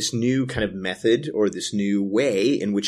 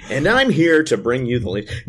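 radio voice; 3 semitones higher than usual. Acted. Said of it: "Continue the introduction".

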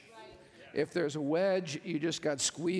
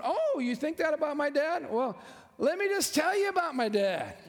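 put-on raised, loud and fast, a boasting child; proud kid bragging; 7 semitones higher, 3 dB louder than usual. Child defending his dad, loud boastful brag. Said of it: "like that little kid in elementary school".

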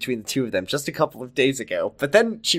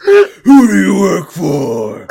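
mock gangster demand; 4 semitones higher, 9 dB louder, much slower than usual.

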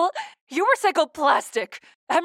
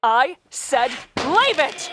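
snapping; slower than usual. Acted. Snaps at AI.

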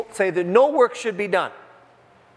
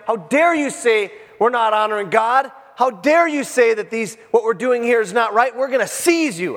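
indignant crowd, mildly raised voice; acted anger; 3 semitones higher than usual. Angry crowds confronting Jesus in the temple, acted indignation. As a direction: challenge him in mock outrage, punching the accusations. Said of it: "they're angry with him".

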